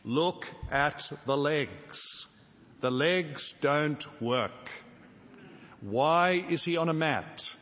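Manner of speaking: slow, drawn-out plea with "legs" stressed; lightly voiced friends, let down and begging; the friends on the roof, looking down at Jesus, slow disappointed plea; disappointed pleading. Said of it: "imagine the men on the roof looking down and saying".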